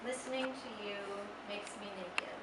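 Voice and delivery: measured poem reading with long pauses; unhurried recital, line by line; poetry reading. Acted. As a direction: read it as a poem, letting each line settle. Reads a student's poem aloud.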